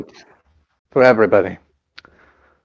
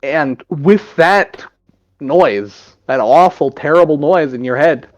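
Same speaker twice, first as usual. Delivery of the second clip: death rattle. Acted. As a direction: draw out each word with dread. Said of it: "That's my death sound".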